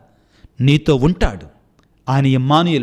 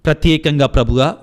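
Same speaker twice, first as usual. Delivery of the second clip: leading prayer. Acted. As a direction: plead with God on behalf of the sick. Leads congregation in prayer. (భక్తితో ప్రార్థన చేసే స్వరం)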